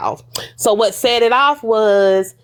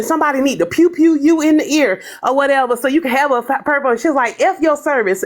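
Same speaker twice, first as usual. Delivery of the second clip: a hint of a higher, heated taunt; retold taunting rant; 5 semitones higher than usual. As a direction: lightly mimic her jeering rage. Retold mocking rant by Pink Ninja.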